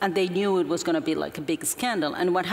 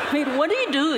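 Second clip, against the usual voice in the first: higher and louder, laughing through the words; 8 semitones higher, 4 dB louder, faster than usual. Real, not acted. Asking the host what anyone could say, laughing. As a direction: laugh it out in disbelief.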